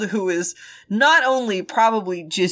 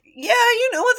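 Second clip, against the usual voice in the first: resigned zombie; 13 semitones higher than usual. Retold or imitated. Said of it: "And Wen Ning's like".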